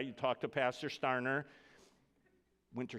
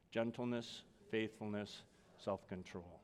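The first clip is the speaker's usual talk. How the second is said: call and response; 3 semitones lower, 6 dB quieter than usual. Shown as a demonstration. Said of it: "Say that with me".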